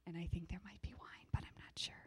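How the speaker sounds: hushed, near-whispered aside; confidential aside. Real, not acted. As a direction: drop to a quick whisper, as if letting them in on a secret. Confiding aside about possible wine.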